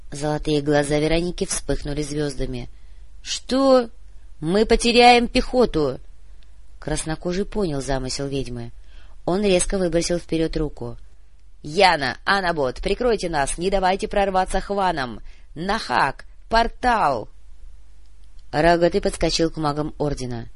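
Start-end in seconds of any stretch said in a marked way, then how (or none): 3.2-6.0 high, loud shocked outcry; alarmed protest. Acted. 11.6-17.3 rising battlefield call for cover; cover me shout. Acted. Commander calls for cover.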